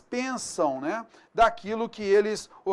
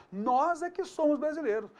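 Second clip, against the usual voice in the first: Nós é que somos brasileiros with é que punched, pitched higher; emphatic; 6 semitones higher, 3 dB quieter than usual. Shown as a demonstration. Teacher demonstrating emphatic é que on brasileiros. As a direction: insist proudly, higher. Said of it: "eu quero enfatizar isso".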